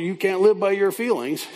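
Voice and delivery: imitating a stern word to a friend; speaking strongly. Counselee admonishing her hurting friend, firm. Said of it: "I really spoke to her strongly".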